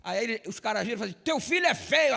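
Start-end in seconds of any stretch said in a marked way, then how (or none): 1.2-2.1 higher, louder taunting yell; mock shout. Friends on the speakerphone shout a taunt at his mother, louder. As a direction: shout it at the phone to provoke her.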